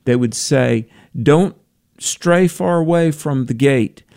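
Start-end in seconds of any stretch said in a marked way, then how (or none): 1.2-4.0 higher, slow gate announcement; a hint of an announcer calling to waiting passengers; lightly voiced airport announcer. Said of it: "over the speaker".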